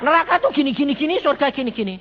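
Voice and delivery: high, loud mock preaching of heaven and hell; mock preacher. Preacher mimicking a pushy prophet, high and loud.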